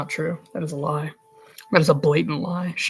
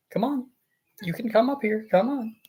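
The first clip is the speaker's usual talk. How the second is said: higher-pitched coaxing to a cat; gently pitched-up pet talk; 5 semitones higher than usual. Real, not acted. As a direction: sweet-talk the cat into coming up.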